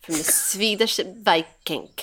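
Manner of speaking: lightly put-on Swedish accent. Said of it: "That was so horrible".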